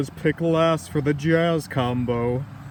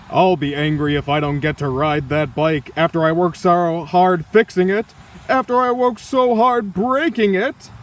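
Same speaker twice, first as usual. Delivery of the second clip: louder, indignant protest; angry complaint; 4 dB louder than usual. Acted. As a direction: demand the bike back, getting heated. Character threatens over the bike.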